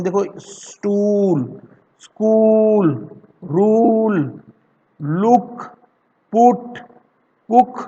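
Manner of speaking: each word said slowly and apart, like a teacher modelling sounds; careful word demo. Shown as a demonstration. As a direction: spell each sound out for the class. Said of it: "इसे हम हिंदी में कैसे बोलेंगे?". (धीरे-धीरे साफ़ उच्चारण)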